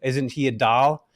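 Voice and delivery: slow, lightly imitated Fargo accent; affectionate imitation of a Midwestern accent. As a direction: draw it out with a hint of North Dakota accent. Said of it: "she had this awesome accent".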